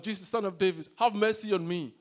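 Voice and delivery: moderately loud cry for mercy; shouted plea. Acted. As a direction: project it like a beggar calling out. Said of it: "he began to shout".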